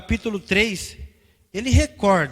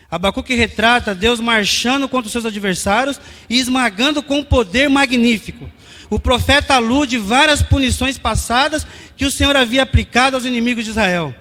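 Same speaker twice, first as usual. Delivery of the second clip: raised, emphatic pulpit delivery; forceful preaching; 3 semitones higher, 7 dB louder than usual. Real, not acted. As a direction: preach it out to the congregation.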